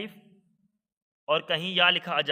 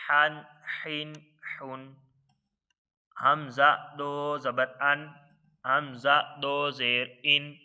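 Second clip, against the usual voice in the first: slow, even chant of letter, harakat, sound; Qaida spelling drill; much slower than usual. Shown as a demonstration. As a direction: sound it out syllable by syllable for the class. (قاعدہ کی ہجے کی مشق، ٹھہر ٹھہر کر)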